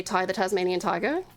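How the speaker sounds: testing out the Aussie pronunciation; low Australian-accented tryout. Shown as a demonstration. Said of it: "randomly turn up the Aussie".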